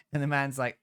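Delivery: ordinary delivery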